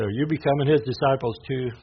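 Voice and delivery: mild mock accusation, a touch indignant; mildly upset. Pharisees challenging the officers who returned empty-handed, mildly upset. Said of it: "the Pharisees are upset".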